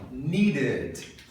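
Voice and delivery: "Needed" with stress on NEE and a short, weak "id"; reduced ending. Shown as a demonstration. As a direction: let the last syllable of "Needed" fall away. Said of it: "É como se eu falasse quase um ed". ("Needed" com final fraco, quase "id")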